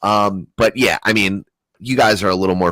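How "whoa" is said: high startled whoa; mock alarm. Playing the scared bystander, high mock alarm. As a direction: pretend to jump back startled. Reacting to brandished gun.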